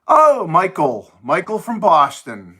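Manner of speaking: light up at a friend's name; excited greeting. Real, not acted. Greeting a viewer.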